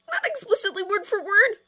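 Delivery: sheepish laugh. Acted. Sheepish admission.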